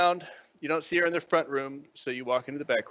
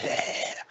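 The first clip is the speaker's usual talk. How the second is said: breathy pant like a dog; 4 dB quieter than usual. Acted. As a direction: pant with your tongue out. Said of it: "tongue hanging out".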